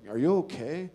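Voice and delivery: puzzled concern. Retold or imitated. Arch enemy checking on man banging the table, puzzled concern. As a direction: ask it high, as if alarmed.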